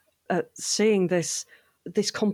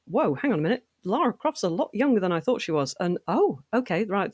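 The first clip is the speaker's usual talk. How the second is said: retold double take, pitched higher; mild surprise; 4 semitones higher than usual. Fan re-enacting her first look at young Lara, mildly surprised. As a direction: act out a light, higher-voiced surprised realisation.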